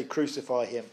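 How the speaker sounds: crowd's cry dropped to a near hush; a quiet, grave echo of the mob's chant. Retold or imitated. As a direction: let the crowd's demand sink low and soft. The crowd's cry, quoted by preacher.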